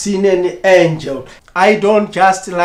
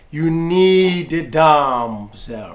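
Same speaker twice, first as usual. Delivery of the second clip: gentle, slow, calming, soothing heavenly voice; 3 semitones lower, 4 dB quieter than usual. The speaker retells what was said to them while praying: retelling the Lord's soothing voice. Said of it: "The Lord was saying to me in a soothing voice".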